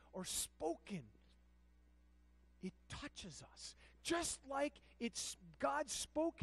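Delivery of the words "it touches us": hushed. Real, not acted. Soft aside in sermon.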